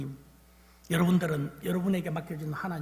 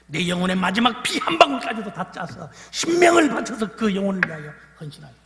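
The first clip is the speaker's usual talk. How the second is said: loud, high surge of devotion; impassioned preaching; 4 semitones higher, 11 dB louder than usual. Real, not acted. Preacher urges teachers, loud and impassioned. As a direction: pour everything into it.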